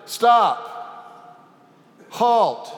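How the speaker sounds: loud, high frantic commands; panicked shout. Acted. Man racing toward a cliff, yelling high and loud. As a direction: yell at a runaway animal. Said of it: "And so he shouted".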